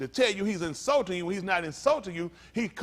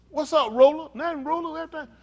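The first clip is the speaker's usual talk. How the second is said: high, loud mock hailing; playful exaggerated hello; acted hearty greeting; 8 semitones higher, 6 dB louder than usual. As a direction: greet a buddy in a pitched-up voice. Acts out a street greeting.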